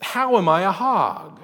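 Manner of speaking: demanding. A narrator's reading. Woman demanding answers from God, pointed. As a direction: press the question hard. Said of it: "she demanded".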